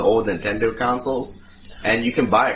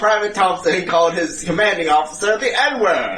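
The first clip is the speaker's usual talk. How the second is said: lightly voiced newsreel announcer; hammed-up old newsreel narration; 5 semitones higher than usual. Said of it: "all that shit in one of those old newsreels".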